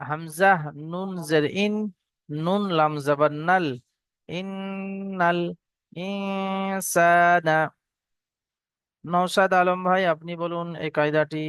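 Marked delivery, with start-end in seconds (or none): 4.3-7.6 slow drawn-out Quran recitation. Shown as a demonstration. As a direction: chant each word slowly. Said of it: "teacher recites the verse".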